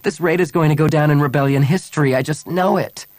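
high, loud and urgent; anguished, emphatic declaration; impassioned plea. A narrator's reading. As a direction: plead your case with rising voice. Anguished woman pleads her cause.

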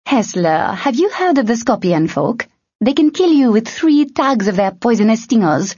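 high, manic grin; gleeful mad grin; grinning madly. A narrator's reading. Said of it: "grinning madly".

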